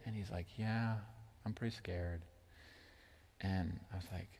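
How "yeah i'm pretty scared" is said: put-on scared little boy. Son answering his father.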